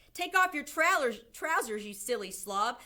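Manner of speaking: loud, high start that settles down; shouted order. A narrator's reading. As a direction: shout impatient instructions to the cook. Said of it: "someone else shouted".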